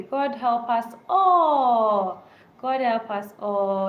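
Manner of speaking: slow, drawn-out plea to God; sorrowful prayer. Real, not acted. Live viewers hear a sorrowful, slow plea for God's help. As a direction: stretch each word out like a grieving prayer. Mourning quake victims, repeated prayer.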